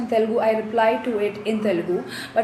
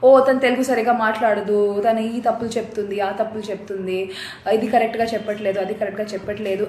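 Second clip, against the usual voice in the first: mocking critics; much faster than usual. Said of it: "rather than being like".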